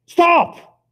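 sudden high shouted stop; a loud, sharp yell to stop. Retold or imitated. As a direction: bark it out in alarm. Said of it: "and then I yell".

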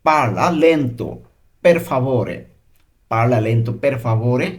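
slow language-teacher delivery, phrase by phrase; measured, drawn-out demonstration with pauses; slow model reading. Shown as a demonstration. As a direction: say it slowly for learners to follow. Teacher models Italian sentence.

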